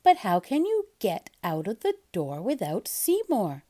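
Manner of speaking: lightly voiced mother, questioning; Mom's voice. Mom asking Splat about Seymour, lightly voiced. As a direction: ask gently, a little doubtful. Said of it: "she said".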